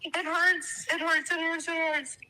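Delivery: hurting. Real, not acted. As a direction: say it over and over as the hurt sinks in, trailing away. Pained, repeating it hurts.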